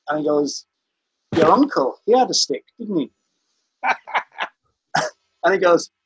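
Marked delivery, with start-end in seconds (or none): 1.3-3.1 higher, lilting mock-Welsh; Rhys Vaughan's Welsh accent. Lawyer presses the farmer about his uncle, lilting rough Welsh. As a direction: imitate a Welsh lawyer's leading question. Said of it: "I can't really do the Welsh accent".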